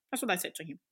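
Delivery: a soft unvoiced whisper; whispered aside. Real, not acted. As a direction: breathe it out as a hushed aside. Whispered aside after quote.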